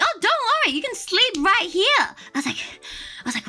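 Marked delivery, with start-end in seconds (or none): 0.0-1.8 high, breezy imitation of the nail tech; mocking imitation. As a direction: parrot him in a high, carefree voice. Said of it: "he was like".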